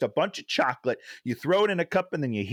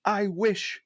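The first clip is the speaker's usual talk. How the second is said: imitating Aladdin; 7 semitones higher than usual. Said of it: "Aladdin's like".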